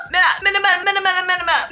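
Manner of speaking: tripping over Mina- while giggling; laughing stumble. Real, not acted. Vlogger laughing as she fumbles a designer's name. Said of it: "I'm gonna butcher this name".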